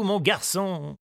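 kindly gardener voice; gently to the boy; old gardener. A narrator's reading. Gardener answers Tistou, kindly.

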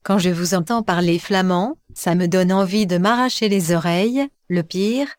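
flat disembodied computer voice; synthetic voice. Acted. Electronic voice introduces itself to the hosts, synthetic voice. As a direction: read it like a speech synthesizer. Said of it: "La voix électronique désincarnée".

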